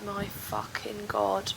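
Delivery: low weary groan; deep slow groan. Real, not acted. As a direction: sink into a low exhausted groan. Dreading going out.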